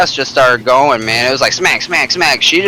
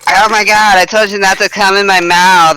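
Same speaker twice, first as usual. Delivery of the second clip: higher-pitched mock of the girl, upset; imitating her upset; 6 semitones higher than usual. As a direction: play her annoyed scolding, pitched up. Retells the girl's complaint.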